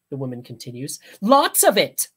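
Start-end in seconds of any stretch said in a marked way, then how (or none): 1.2-2.1 high, loud insistence; mother demanding therapy; emphatic mother. Acted.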